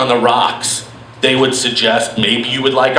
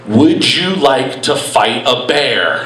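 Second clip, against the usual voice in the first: slow misheard question; 2 semitones lower, slower than usual. Retold or imitated. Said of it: "What I heard was".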